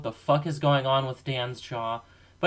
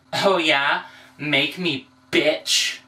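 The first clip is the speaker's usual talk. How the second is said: taunting; 5 dB louder, much slower than usual. Acted. Alter ego taunts back.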